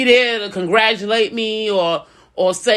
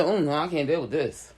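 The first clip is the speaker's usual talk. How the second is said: mock whiny friend; 6 semitones lower, 9 dB quieter than usual. Mocking a flaky friend.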